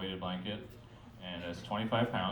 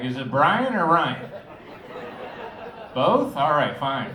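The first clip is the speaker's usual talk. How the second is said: confused; 4 semitones higher, 7 dB louder, slower than usual. Pretend. Voices talking back in head.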